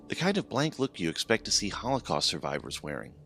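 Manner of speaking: usual speaking voice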